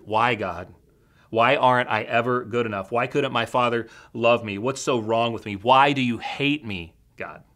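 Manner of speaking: retold scream at God. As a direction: cry out to God in anguish, half-performed. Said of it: "I screamed mockingly".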